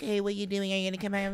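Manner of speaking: high mock-chummy call voice; imitating FaceTime chatter. Host mimics friend FaceTiming pals, high imitated chatter. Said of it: "And then you FaceTime Lorraine".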